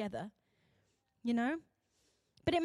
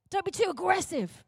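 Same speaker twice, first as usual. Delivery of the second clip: higher-pitched mock warning; admonishing; 5 semitones higher, 3 dB louder than usual. Society warning the competitive, raised and chiding. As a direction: chide with a raised voice.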